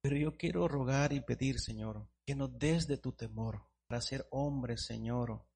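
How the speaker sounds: earnest pastoral prayer; fervent prayer to the Lord. Acted. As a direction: pray it humbly for the church. Pastor leads closing prayer.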